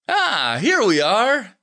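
high, cheery announcement; cheerful. A narrator's reading. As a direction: call it out brightly in a high voice. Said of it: "he said cheerfully".

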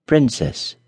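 a gentle "Princess"; tender. Acted. Charming approaching the crying princess, tender. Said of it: "he said tenderly".

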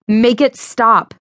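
begging, words dragged out; desperate plea. Acted. Showing second leaf, desperate.

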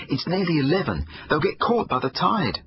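put-on boy panting out a warning to his dad; panting, urgent. A narrator's reading. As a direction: press the danger home, breathless. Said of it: "panted Jake".

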